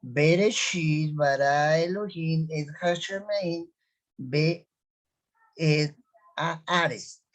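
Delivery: slow model reading. Shown as a demonstration. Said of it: "otra vez".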